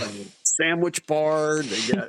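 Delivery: high, wondering rundown of the food bars; excited soldiers. Retold or imitated. Soldiers walking into the Air Force chow hall, high excited wonder. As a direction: list the treats like kids in a candy store. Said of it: "they're like".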